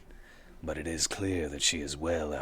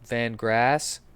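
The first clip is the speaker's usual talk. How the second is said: character voice; 7 semitones higher, 6 dB louder than usual. Acted. NPC haggling.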